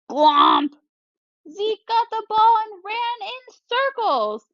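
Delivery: high, bouncy narration of the blunder; comic dismay. Shown as a demonstration. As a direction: tell the flub with playful alarm. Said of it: "change my voice to match".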